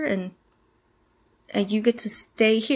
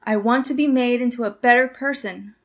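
louder, insistent restatement; louder insistent repeat; 5 dB louder than usual. Acted. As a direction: repeat it louder, pressing the point. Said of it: "I said I".

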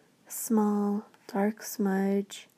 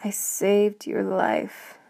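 spat out; slower than usual. Acted. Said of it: "spat out the words like a sour taste".

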